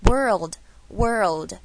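"world" loud, in two syllables; "world" firmly voiced as two beats. Shown as a demonstration. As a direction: stretch "world" into wor plus old. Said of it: "是两个音节的感觉".

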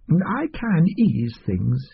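slow, smooth, lightly voiced doctor; slow oily offer. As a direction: ease the offer out slowly.

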